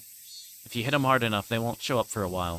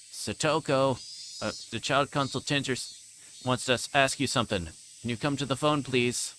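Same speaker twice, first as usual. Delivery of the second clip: higher, syrupy fake kindness; sweet phony voice; 4 semitones higher than usual. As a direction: stepdad calls the girl sweetly to the phone, falsely nice. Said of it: "addressing Satoko in a sweet, phony voice".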